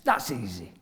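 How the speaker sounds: tossed off lightly, sure of himself; breezy confidence. Retold or imitated. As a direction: say it like it's nothing. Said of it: "so I thought".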